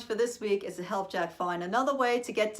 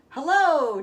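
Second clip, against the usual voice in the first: loud call upward, higher; shouting up; 7 semitones higher, 11 dB louder than usual. Acted. Jack calling up to the giantess at the door, loud shout. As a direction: call up to someone far above. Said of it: "Jack shouted up".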